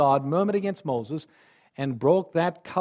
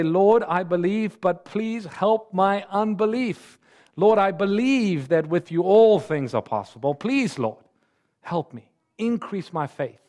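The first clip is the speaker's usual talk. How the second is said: crying out in prayer; 2 semitones higher, 3 dB louder than usual. Pretend. Preacher models a believer's prayer, urgent and pleading. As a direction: lift the plea up to the Lord with urgency. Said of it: "we can cry out to him and say".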